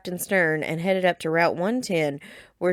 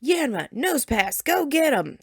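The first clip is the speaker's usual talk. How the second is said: eager shout; 8 semitones higher than usual. A narrator's reading. Grunt sending out Pokemon.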